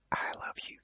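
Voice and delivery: breathy whispered "I love you"; barely a breath, secret and close. A narrator's reading. Teacher's example, whispering into her ear. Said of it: "I managed to whisper in her ear".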